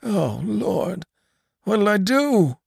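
put-on high, fretful old man's groan. A narrator's reading. Old storekeeper groaning to his neighbour about the raid. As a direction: wail it like a frightened old man. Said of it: "groaned the old man".

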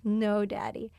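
put-on slow, laughing through a child's reply; giggly kid quote. Mom laughing while quoting her little daughter. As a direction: giggle out the cheeky answer. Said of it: "She goes".

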